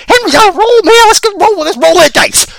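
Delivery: high, loud hype; hyped up. Real, not acted. Hyped exclaim about Henry.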